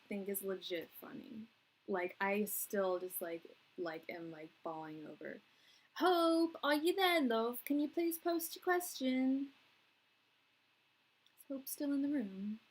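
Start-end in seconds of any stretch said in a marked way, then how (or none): 6.0-12.6 raised, higher calling voice. Real, not acted. Host to a chat member who may have left, calling out. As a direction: call across a room, friendly but insistent.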